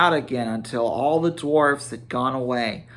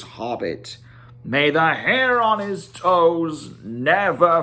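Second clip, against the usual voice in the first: Thorin's grand speech; 2 semitones higher than usual. Acted. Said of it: "this is how Thorin began".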